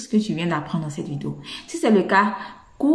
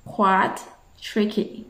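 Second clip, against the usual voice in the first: whispered repeat; much slower than usual. Shown as a demonstration. Teacher whispers the phrase to her learners. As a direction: whisper "It's quite tricky" slowly, breathy and voiceless. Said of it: "tu vas dire".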